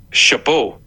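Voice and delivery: שאפו in a French accent. Shown as a demonstration. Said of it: "אני אגיד את זה במבטא צרפתי". (מבטא צרפתי)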